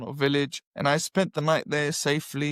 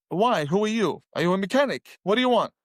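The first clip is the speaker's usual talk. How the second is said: defensive; 5 semitones higher than usual. Retold or imitated. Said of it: "Just very defensive".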